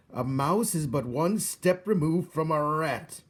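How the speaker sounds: slow, loud, disdainful royal voice; a weeping king sneering at a mouse; scornful king. A narrator's reading. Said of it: "bellowed the king".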